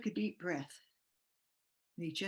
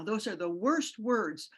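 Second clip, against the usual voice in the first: each word weighed down slowly; slow, pained emphasis; 2 semitones higher, 4 dB louder than usual. Real, not acted. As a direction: drag out worst, heavy with grief. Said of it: "I could cry right now".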